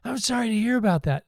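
high, laughing mock condolence; laughing sympathy. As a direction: say sorry while cracking up. Retold movie, driver sympathizing.

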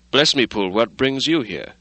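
taken aback by the late visitor; surprised cry. Acted. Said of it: "he cried".

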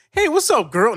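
silly high-pitched "sweet talk" voice; mock phone flirting voice. Shown as a demonstration. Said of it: "like this on the phone".

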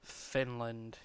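whispering the name back; whispered. Acted. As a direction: breathe it like a secret. Echoes the punchline in whisper.

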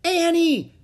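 high, loud shout of a name; desperate yell; crying out. A narrator's reading. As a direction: call out urgently, far above normal pitch. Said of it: "cried Jack".

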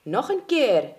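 loud, jubilant cheer. Acted. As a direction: cheer them on for another go. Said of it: "juichte Langaneki".

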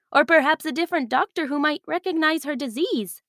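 lightly voiced worried village leader. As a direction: plead gently for your sick daughter. Olina voiced, pleading for daughter.

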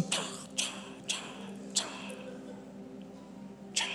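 whispered, spaced-out impact noises; soft "tchá" bounces slowing down; imitated bouncing. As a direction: mimic a body skidding along, voiceless. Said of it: "só quicando assim".

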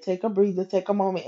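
soft, soothing advice; calm them down gently; encouraging. Retold or imitated. Coworker to her crying friend, softly encouraging. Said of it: "encouraging me".

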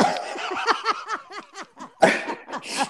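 silent wheezing laugh, very high; high breathless laugh. Real, not acted. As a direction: laugh without voice. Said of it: "you made me laugh".

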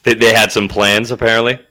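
way too loud on mic; booming into the microphone; too loud indoors. Real, not acted. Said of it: "You're super loud right now".

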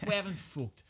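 high, soft English accent. Shown as a demonstration. Correcting friend's echo, English accent. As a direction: say it softly in fake English. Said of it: "English accent".

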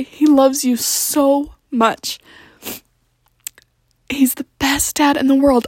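tender whisper with the breath only. Real, not acted. Confiding to baby about dad.

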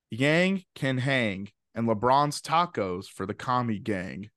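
slow, playful storybook read; storyteller reading. Pretend. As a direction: savor each word like a class story. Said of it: "like, you're reading to the class".

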